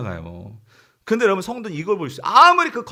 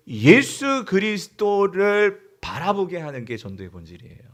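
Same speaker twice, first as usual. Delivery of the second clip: slow, emphatic group read-out; reading aloud together. Real, not acted. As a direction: lead the congregation in reading, stretching key words. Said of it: "같이 읽어볼게요". (또박또박 느리게 함께 읽기)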